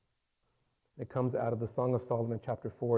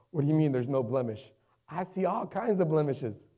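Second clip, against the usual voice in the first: mildly indignant, pitch climbing toward the end; incredulous objection; 3 semitones higher, 4 dB louder than usual. Acted. Preacher voicing his own doubt back to God, incredulous. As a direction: protest in disbelief.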